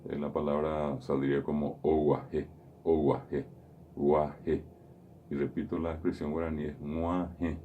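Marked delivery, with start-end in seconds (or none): 1.8-4.6 "oguaje" with a plain g and no nasal sound; non-nasal mistake. Shown as a demonstration. Teacher imitating the wrong non-nasal form. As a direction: say "oguaje" like a learner who drops the nasal. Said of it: "si no utilizo la nasalidad".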